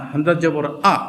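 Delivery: হামজা জবর আ with a short, quick আ; right short vowel; short clipped aa. Shown as a demonstration. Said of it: "এরকম সংক্ষেপে উচ্চারণ হবে".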